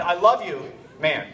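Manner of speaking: quick, offhand "I love you, man"; casual affection. Retold or imitated. Dad putting his seven-year-old son to bed, casual affection. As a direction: tack "man" straight onto the affection. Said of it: "I'm putting him to bed".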